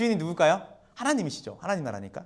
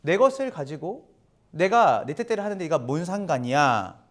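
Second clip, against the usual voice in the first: 무심한 주인. Retold or imitated. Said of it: "이런 게 아니라".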